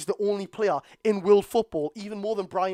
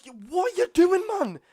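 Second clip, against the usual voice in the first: exasperated shout, higher and louder; angry yell; 12 semitones higher, 6 dB louder than usual. Real, not acted. Fan yelling at Barnes on the screen, angry shout. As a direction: bellow at the player in real anger.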